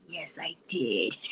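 mock cheeky comeback. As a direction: own up with deadpan relish. Acting her own cheeky comeback.

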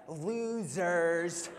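a hint of a snotty fourteen-year-old; drawn-out teen sneer; teen attitude. Teen girl in backseat sneering at the men, mock snotty. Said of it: "with so much attitude".

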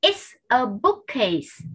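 very slow, word by word; careful teacher's demonstration with gaps; slow model sentence. Shown as a demonstration. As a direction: space out each word for learners to copy.

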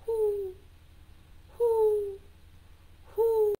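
high, rounded, spaced hoots; owl hoot. Shown as a demonstration. Teacher showing children what owls say, high hoots. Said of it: "What do owls say?".

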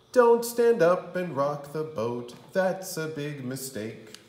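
a loud playful alarm; loud warning. Acted. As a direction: call out the warning sharply. Warning in rhyme.

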